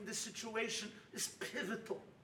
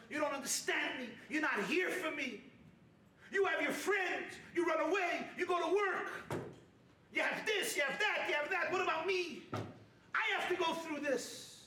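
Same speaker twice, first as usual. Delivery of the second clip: mock wife's complaint; 3 semitones higher than usual.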